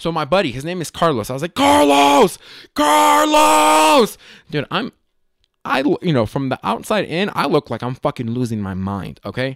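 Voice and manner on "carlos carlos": very high-pitched, very loud shout. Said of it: "and I'm yelling".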